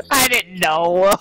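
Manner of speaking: words breaking up into real laughter; laughing hard. Real, not acted. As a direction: try to talk through a laughing fit. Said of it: "Why am I laughing so hard".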